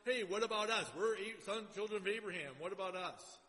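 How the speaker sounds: lightly put-on Jewish accent. Preacher voicing Jewish people hearing Paul's letter, light mock Jewish accent. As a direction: protest with a hint of a Jewish accent. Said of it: "That's my Jewish accent".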